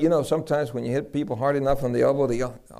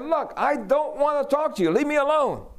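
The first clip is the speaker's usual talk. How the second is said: high, pushy brush-off; irritated refusal; 12 semitones higher than usual. Retold or imitated. Cousin pushing the preacher away, irritated. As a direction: shove him away with words.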